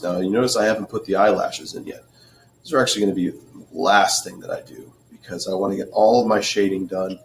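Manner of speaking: hoarse, losing his voice. Real, not acted. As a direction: voice going rough and hoarse. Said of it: "Losing my voice here".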